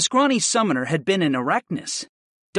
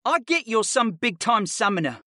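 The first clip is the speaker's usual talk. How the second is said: higher-pitched cocky student; mildly drawled, mocking pupil voice; drawling boy; 8 semitones higher than usual. A narrator's reading. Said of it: "the boy drawled".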